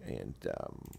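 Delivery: just woke up, low and groggy; early morning voice, still half asleep; deep morning voice. Real, not acted. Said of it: "my voice is like this 'cause it's early in the morning".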